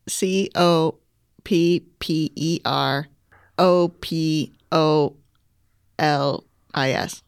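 spelling it out. Real, not acted. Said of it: "spell the word".

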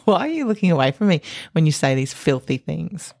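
giggling through a question; laughing. Real, not acted. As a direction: talk while giggling. Laughing at co-host's joke.

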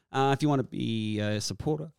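talking while choking on beer; coughing through a mouthful of beer; choking on a drink. Real, not acted. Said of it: "pardon me, choking on a beer".

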